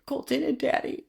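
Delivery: put-on high, far-from-own little boy voice; small child's voice. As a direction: imitate a young son answering in a high pitch. Mother voices her small son answering.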